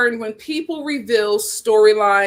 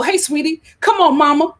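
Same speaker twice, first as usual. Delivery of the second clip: mock motherly voice; 5 semitones higher, 3 dB louder than usual. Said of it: "the way you talk to people".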